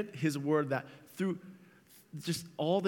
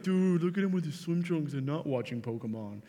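mocking bully. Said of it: "he's like".

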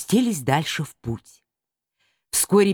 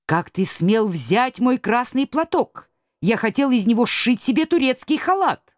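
indignant outburst; 7 semitones higher than usual. Acted. Мурзилка rushes at Чумилка over his scarf, indignant. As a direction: demand an answer, offended. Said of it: "Сорвался вдруг Мурзилка".

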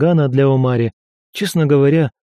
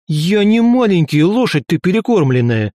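offended howl; 6 semitones higher than usual. A narrator's reading. Tiny god howling at Velga who called him small, outraged. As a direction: howl back at the insult. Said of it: "взвыл".

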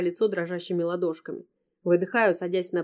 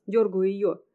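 ordinary delivery, nothing marked

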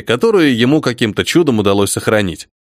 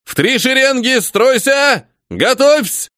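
higher, ringing drill commands; shouted orders; 9 semitones higher, slower than usual. A narrator's reading. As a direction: drill the ranks. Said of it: "закричал Голицын".

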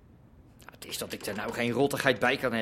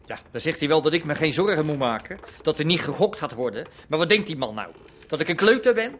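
louder, climbing higher by the end; building indignation; 3 semitones higher, 5 dB louder than usual. Acted. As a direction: rant yourself up to the last question. Ranting about a rival. (steeds bozer wordend)

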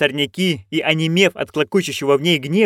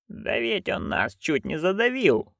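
hissed; 5 semitones higher, 8 dB quieter, slower than usual. A narrator's reading. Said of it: "прошипела матушка".

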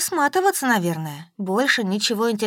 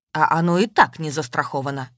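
a mildly raised voice, lower pitch; 5 semitones lower than usual. Acted. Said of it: "повысила голос".

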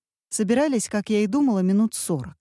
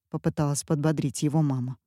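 ordinary delivery

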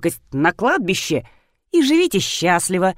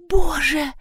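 gasping; 8 semitones higher than usual. A narrator's reading. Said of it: "ахнула Рина".

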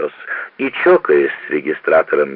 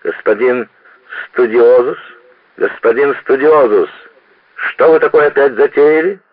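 rising, louder scolding; angry rebuke; 7 semitones higher, 4 dB louder than usual. Acted. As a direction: scold the student, voice climbing. Conrector scolding student.

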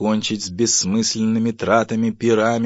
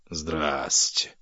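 low, understated ironic greeting; sarcastic aside; 4 semitones lower than usual. Acted. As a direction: drop it as a dry aside. Husband's sarcastic muttered reaction. (саркастически, себе под нос)

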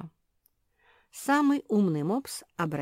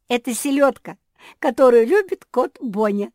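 giggling; 8 semitones higher, 14 dB louder than usual. A narrator's reading. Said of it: "хихикнула Жози".

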